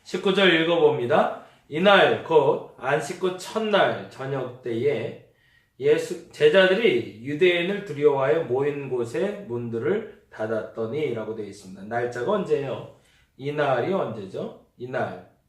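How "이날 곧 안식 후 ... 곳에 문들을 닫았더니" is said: scripture reading. Acted. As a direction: read the verse weightily to the congregation. Reads scripture aloud.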